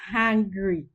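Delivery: "hungry" said as HANG-gree; hangry coinage. Shown as a demonstration. Mother gives the family's word for it, "hungry" pronounced hangry. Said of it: "we have a word for it".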